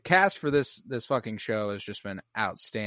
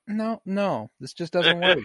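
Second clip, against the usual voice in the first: higher, louder, laughing mock despair; laughing dismay; 8 semitones higher, 6 dB louder, slower than usual. Looking in the mirror after Alexa Demi, laughing mock dismay. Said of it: "I'm looking in the mirror like".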